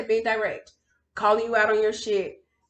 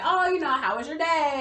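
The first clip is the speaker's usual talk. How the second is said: higher-pitched imitation of a chatty mom; casual mom on phone; 7 semitones higher than usual. Mom calling to ask about the day, casually imitated. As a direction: lightly voice a mother's casual check-in.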